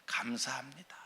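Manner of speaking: soft, breathy-free hushed "감사합니다" with rising end; whispered thanks. Shown as a demonstration. Preacher showing the congregation a believer's gentle words, hushed. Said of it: "예수 믿는 사람의 언어가 뭐예요?".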